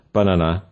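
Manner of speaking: "banana" with weight on the opening BA; BA-na-na, "banana" stressed at the start; stress on first syllable. Shown as a demonstration. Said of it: "first and last ones".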